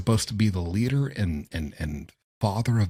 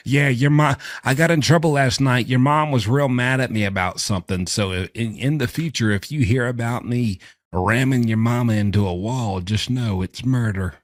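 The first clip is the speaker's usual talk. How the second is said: imitating the dad; 3 semitones higher, 4 dB louder than usual. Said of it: "confession from the dad".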